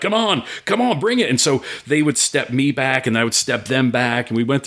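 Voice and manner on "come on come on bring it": acted challenge.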